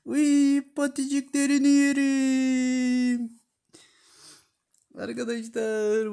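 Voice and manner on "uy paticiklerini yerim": much higher, slow cooing voice. Real, not acted. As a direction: melt over the tiny paws, slowly. Cooing over the kittens' paws. (minik patilere tatlı tatlı sevgi sözleri)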